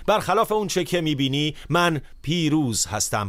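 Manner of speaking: a preacher voicing God's triumphant promise. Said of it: "خدا اینطور میگه".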